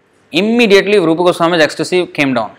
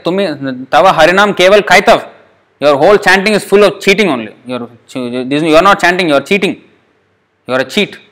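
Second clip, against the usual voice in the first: scolding his own mind; 3 semitones higher than usual. Acted. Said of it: "He is chastising his own mind".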